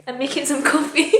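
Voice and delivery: pretending composure. Vlogger covering up tears over coffee, pretending composure. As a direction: act as if you didn't just cry. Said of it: "Pretending I didn't just cry".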